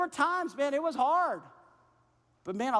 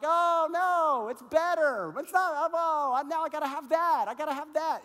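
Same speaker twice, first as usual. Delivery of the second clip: higher, louder mock excitement over a new phone; mock craving; 6 semitones higher, 3 dB louder than usual. Preacher mocking the phone buyer, higher and louder. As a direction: play someone who has to have the newest phone. Mimicking a gadget craver.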